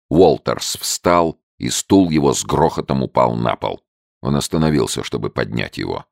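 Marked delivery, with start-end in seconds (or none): none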